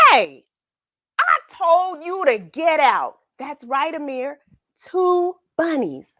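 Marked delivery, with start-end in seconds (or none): 0.1-3.1 a touch of a gruff dog bark; mock tough scolding; mild bark. A narrator's reading. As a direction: scold the bunny, half-hearted. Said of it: "Mike barked at the first bunny".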